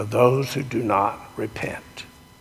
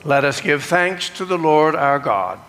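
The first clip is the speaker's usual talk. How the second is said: liturgical recitation. Acted. Leads the communion liturgy.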